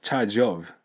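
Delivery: "charge of" run together as "jov"; linked charge of. Shown as a demonstration. Teacher showing students the link. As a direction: let the J of "charge" slide into "of".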